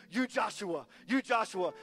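lightly put-on Hispanic accent, broken English; a faint imitation of an elderly woman's Hispanic accent; mock Hispanic accent. Elderly Latina woman telling Brian who he is, faint mock Hispanic accent. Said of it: "supposed to sound Hispanic".

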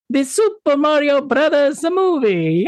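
excited. Acted. Announcing the movie title.

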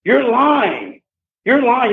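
sharp high cry of you're lying; furious high accusation; retold scream. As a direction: yell it at her, high. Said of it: "And I screamed".

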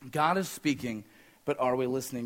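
hushed, dropped-down echo of the line; soft echo. Shown as a demonstration. Repeated line, softer echo.

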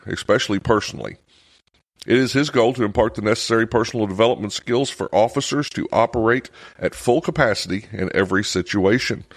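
measured, even reading of an introduction; bio read-aloud. Acted. Host reads guest's bio from the book, measured read-aloud.

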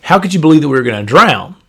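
a fast, mildly scolding rebuke; rebuking. Retold or imitated. Jesus mildly rebuking his frightened disciples, fast scolding. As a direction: scold them lightly for their fear. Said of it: "as if he was rebuking the disciples".

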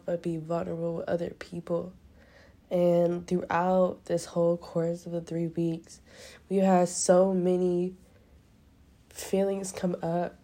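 tearful, catching breath midword; crying. Real, not acted. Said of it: "Sorry, I'm crying so much right now".

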